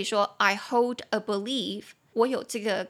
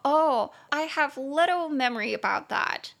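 apologetic speaker; 4 semitones higher than usual. Shown as a demonstration. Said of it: "所以如果当你说".

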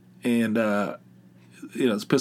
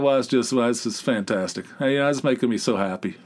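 sarcastic. Retold or imitated. Sarcastic reply about cost.

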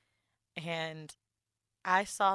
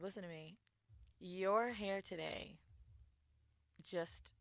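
retold hushed coworker; 10 dB quieter, slower than usual. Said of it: "and she said".

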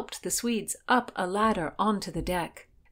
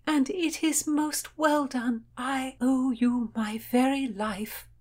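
earnest gratitude; 7 semitones higher, slower than usual. A narrator's reading. Heroine gratefully praises rescuer.

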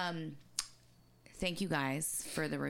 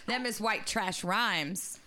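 laughing; 4 semitones higher, 5 dB louder, slower than usual. Real, not acted. Laughing through the line.

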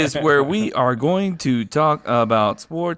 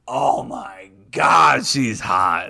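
mock gushing; much slower than usual. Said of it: "She's not like".

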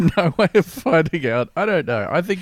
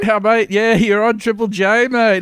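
hyped-up radio presenter, louder and higher; matey radio host; 8 semitones higher, 8 dB louder, slower than usual. Acted. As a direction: humour the caller with big radio-host matiness.

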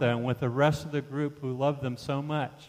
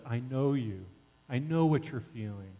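softer, tender reassurance; gentle empathy; 5 dB quieter than usual. Acted. Jesus telling the sufferer he understands, gentle empathy. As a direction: drop softly into comforting understanding.

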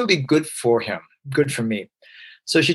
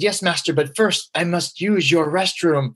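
slow, solemn mock Kung Fu master speech; lightly played stiff kung fu disciple, slow; boy asking his sensei, slow and formal; Kung Fu priest; 3 semitones higher than usual. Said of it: "talk to him like I heard David Carradine speak".

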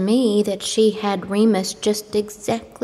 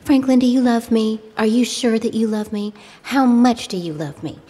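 higher-pitched mimicked pleading for love; re-enacted lover's plea on the phone; retold lovestruck pleading; 4 semitones higher than usual. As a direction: imitate her needy questioning, pitched up.

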